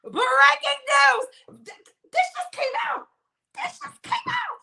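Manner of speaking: breaking news excitement. Real, not acted. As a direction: announce the scoop like you can't contain it. Excited announcement of new clip.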